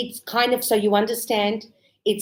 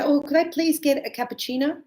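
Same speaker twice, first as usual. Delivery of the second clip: polite customer; 5 semitones higher, faster than usual. Retold or imitated. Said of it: "some people say".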